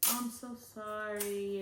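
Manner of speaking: retold sympathy. Hospital staff voiced offering sympathy.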